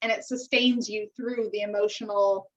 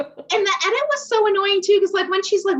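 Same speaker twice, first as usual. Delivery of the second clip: higher, laughing through it; 8 semitones higher, 4 dB louder than usual. Real, not acted. To her co-host about the show's edit, laughing complaint.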